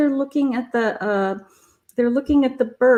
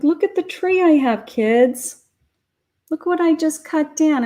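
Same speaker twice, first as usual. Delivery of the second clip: proud Santa; 5 semitones higher than usual. Retold or imitated. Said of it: "He's like".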